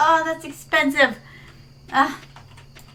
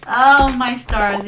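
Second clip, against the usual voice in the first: put-on prim old lady; 7 dB louder, much slower than usual. Slow prim exclamation.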